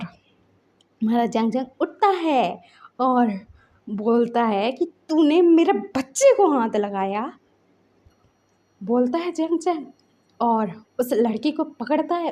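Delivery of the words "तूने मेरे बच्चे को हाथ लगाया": retold angry challenge, slow and pressing; mild mock anger, dragging the words out. Father confronting the woman who hurt his child, mildly angry. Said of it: "उसको जो गुस्सा चढ़ा ना".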